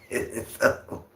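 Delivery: softly whispered through a laugh. Real, not acted. Streamer reassuring chat the stalking ended, whispered laugh. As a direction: breathe it out, laughing under your breath.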